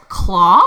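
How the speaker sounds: "Claw" as a rising, loud question; questioning echo. Retold or imitated. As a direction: repeat "Claw" in disbelief, voice rising. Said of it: "And I said".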